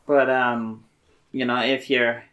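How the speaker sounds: lightly put-on Boston accent; halting attempt at a Boston accent; terrible Bostonian accent. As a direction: carry on in character, loosely Bostonian. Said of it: "this terrible Bostonian accent".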